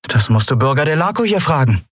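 höhere Stimme, betont geschäftsmäßig; höher und lauter, die Lieferung vorzeigen; Kapitänin Andriel, forsch. A narrator's reading. Andriel antwortet. (Kapitänin präsentiert dem Kunden die Ware, höhere Stimme)

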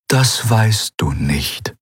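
slow, measured spirit voice; calm Eidolon. Acted. Eidolon to Kai, calmly countering his doubt, slow and measured. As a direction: answer slowly, unshaken.

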